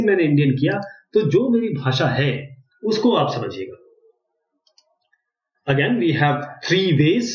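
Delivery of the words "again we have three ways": "Again, we have three ways" बहुत धीरे, खींचकर; माइक में शब्द-शब्द अलग करके बोलें; slow dictation. Shown as a demonstration. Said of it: "मैं कुछ भी बोल रहा हूं, वो यहां पर आ रहा है।". (बहुत धीमा, खिंचा हुआ अंग्रेज़ी डिक्टेशन)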